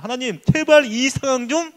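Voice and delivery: slow, drawn-out plea to God; pleading prayer. Acted. Congregant praying for help in hardship, pleading. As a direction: plead with God, stretching the words. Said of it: "기도하고 있을 겁니다".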